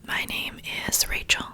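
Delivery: unvoiced-breath ASMR whisper, unhurried pauses; nice relaxing whisper. Real, not acted. Host welcoming listeners to a poetry reading, whispering. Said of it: "some nice whispers".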